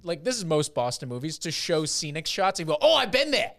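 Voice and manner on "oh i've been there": high, loud "been there" squeal; excited mock exclamation. Mimicking Boston moviegoers spotting scenic shots, mock excitement. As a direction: pipe up like a thrilled local spotting home.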